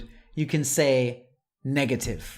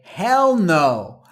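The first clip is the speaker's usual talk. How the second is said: louder, HELL stressed; informal emphatic no; 3 semitones higher, 6 dB louder than usual. Shown as a demonstration. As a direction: toss it out casually. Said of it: "very informal way".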